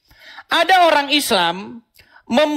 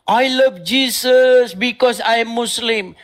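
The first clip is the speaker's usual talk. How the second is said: quoting the Muslim; slower than usual. Retold or imitated. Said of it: "Dia bilang begini".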